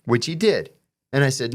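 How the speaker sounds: ordinary talk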